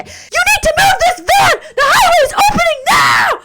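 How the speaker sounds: very high, loud aggressive shout; aggressive cop shout. Retold or imitated. Cop yelling at the stranded driver, aggressive shout. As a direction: yell it like a cop who won't listen. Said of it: "he was so aggressive".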